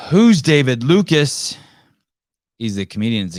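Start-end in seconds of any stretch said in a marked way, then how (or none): 0.1-1.6 high, loud, slow voice of a puzzled listener; mock listener voice. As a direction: ask as the confused audience. Mock audience question, slow loud.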